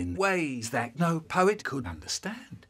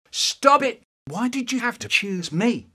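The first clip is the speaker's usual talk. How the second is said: anguished shout; 8 semitones higher, 3 dB louder than usual. Acted. Anguished outburst at Michael.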